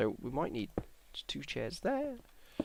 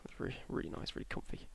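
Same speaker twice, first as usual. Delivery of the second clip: whispering; 6 semitones lower, 12 dB quieter, faster than usual. Real, not acted. Soft aside about comfy seats.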